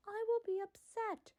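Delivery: breathy whisper, a mock warning; whispered threat. Real, not acted. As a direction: whisper it like a half-joking threat. Mock threat about season three.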